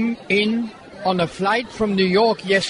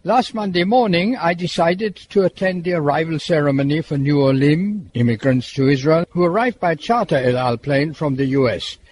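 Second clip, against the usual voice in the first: measured, lower-pitched scripted read; radio report narration; 8 semitones lower than usual. Acted. Presenter telling listeners about the airport arrivals, scripted report narration.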